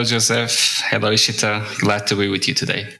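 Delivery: usual speaking voice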